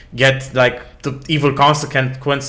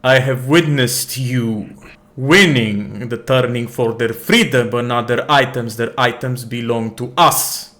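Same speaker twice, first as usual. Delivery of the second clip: stern captain. Acted. Captain Kamar argues with the prince.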